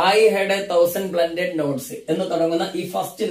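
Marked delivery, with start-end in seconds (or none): 0.1-1.9 words stretched out very slowly; slow poetry reading. Shown as a demonstration. Teacher rereading the first line slowly for the class. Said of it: "ഏതാണ്?".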